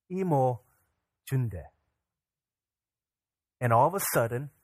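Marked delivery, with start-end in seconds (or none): 0.1-1.6 unhurried statement with a falling end; lightly voiced reassuring mother; motherly reassurance. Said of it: "in her motherly wisdom".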